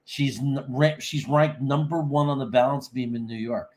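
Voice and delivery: faint, far from the mic; sounding faint on the call; barely audible. Real, not acted. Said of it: "you sound a little faint".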